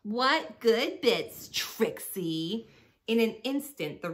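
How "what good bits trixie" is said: higher, louder, slow feigned innocence; innocent mouse. A narrator's reading. Small mouse Celeste answers the bully rat, mock innocent. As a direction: mouse playing dumb.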